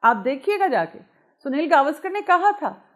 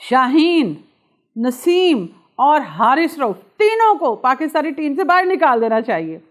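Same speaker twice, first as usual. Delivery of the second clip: loud, emphatic mock outrage, name by name; thundered verdict in imitated anger; angry Mohammad Hafeez quote; 5 dB louder than usual. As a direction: voice an irate ex-cricketer's demand, spaced out for drama. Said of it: "professor تو غصے میں اس قدر آگے نکل گئے".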